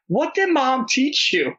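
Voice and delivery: high, slow, teasing reproach; a dad playing stern, not really angry; mock scolding. Dad scolding toddler, retold.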